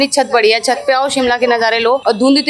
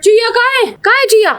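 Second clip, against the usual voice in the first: playful searching; 8 semitones higher than usual. Real, not acted. Hide and seek with baby.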